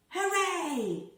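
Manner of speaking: high, bright cheer of joy; excited cheer. Acted. Hoppy the rabbit cheering at birdsong, high excited cheer. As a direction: cheer it out like a happy bunny.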